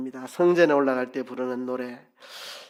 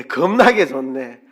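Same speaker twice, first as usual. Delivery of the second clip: slow, louder Jeolla dialect praise; 전라도 사투리로 느리게; 7 dB louder than usual. Shown as a demonstration. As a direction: draw it out in Jeolla dialect, delighted. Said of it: "전라도 말로 하면 어떻게 하나요?".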